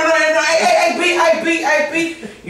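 very high hammed-up New York call of hey B; mock New York accent. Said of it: "I know how to do the New York accent".

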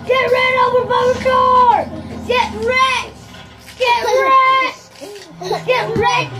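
punchy, repeated gamer taunt; playful trash-talk holler; gleeful taunting. Pretend. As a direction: crow it over a beaten opponent. Taunting characters he runs over.

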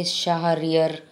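Shahryar with an extra vowel after the h; Shahryar said as sha-ha-RI-er; another pronunciation. Shown as a demonstration. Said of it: "You can say Shahryar".

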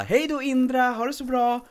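cheery teacher goodbye. Retold or imitated. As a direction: imitate the chirpy teacher waving off the kid. Teacher voiced again in story.

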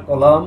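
কলাম ending on M, the N left silent; teacher's firm model of কলাম without an N. Shown as a demonstration. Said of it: "এন এর উচ্চারণ হবে না".

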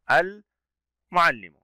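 "المعلم" split after a clear "ال"; lam pronounced. Shown as a demonstration. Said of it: "هل لساننا ارتفع إلى الأعلى". («المعلم» ببطء مع لام ظاهرة)

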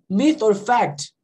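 "myth or fact" run together, the c of "fact" barely sounded. Shown as a demonstration. Teacher showing fast speech drops the C, linked demo. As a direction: link "myth or fact", swallowing the k before the t. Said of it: "Mas quando eu falo rápido".

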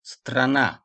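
"Strana" said "straNA"; stress on last syllable. Shown as a demonstration. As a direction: land on the final "na" of "Strana". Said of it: "vurgu sonda".

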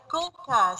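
"coca" with a k sound for each c; teacher showing the k sound in "coca"; hard C. Shown as a demonstration. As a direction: say "coca" with hard c's, as without a cedilla. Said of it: "we will pronounce it like".

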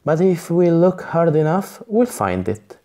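cheerful. Acted. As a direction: bounce in with a cheery no. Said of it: "she says cheerfully".

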